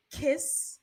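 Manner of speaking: high, rising little-doll question; creepy childlike plea. Retold or imitated. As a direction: imitate a creepy man-child begging. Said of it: "the creepiest part of the movie".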